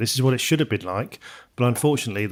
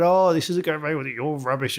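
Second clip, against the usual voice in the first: mock moaning; 4 semitones higher than usual. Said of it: "he's there moaning, going".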